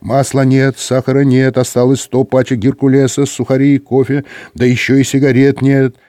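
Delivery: droning list-reader on the air; radio chatter voice. Acted. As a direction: rattle off a supply list over the radio.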